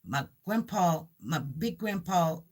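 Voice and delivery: a hint of a child explaining, in short phrases; child's matter-of-fact telling. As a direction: lightly imitate a little one counting grandpas. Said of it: "that's how he said it to me".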